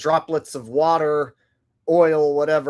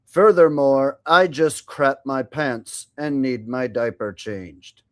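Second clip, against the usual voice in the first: Stephen Hawking robot voice. Retold or imitated. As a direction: read it like a text-to-speech box. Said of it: "I'll do Stephen Hawking's robot voice".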